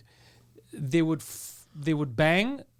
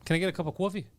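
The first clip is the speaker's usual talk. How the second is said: New York order with "cwoffee"; New York accent; 4 dB quieter, faster than usual. Shown as a demonstration. Ordering coffee as a New Yorker, New York accent. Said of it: "New York accent is how they say coffee".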